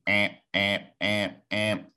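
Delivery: voiced alarm clock beeping, "amp, amp"; imitated alarm beeps. Guest acts out his alarm for the host, mock beeping. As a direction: chant the beeps like a morning alarm. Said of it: "Wake up with me".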